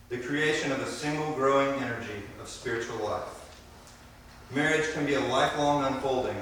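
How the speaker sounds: formal ceremony address. Acted. Officiant delivers wedding address.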